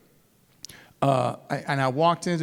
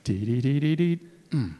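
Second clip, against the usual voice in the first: nervous newbie. Retold or imitated. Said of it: "you'll be like this".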